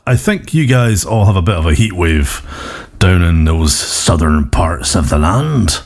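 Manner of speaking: a hint of Cornish burr; Cornish accent. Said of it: "I'm not sure why I'm doing a Cornish accent".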